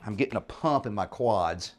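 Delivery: winded after a hard set of squats; a little out of breath. Real, not acted. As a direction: talk between puffs, catching your breath. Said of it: "starting to get a little out of breath".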